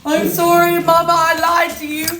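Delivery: imitating a small girl confessing through tears; crying little niece. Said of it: "crying to her mom and was like".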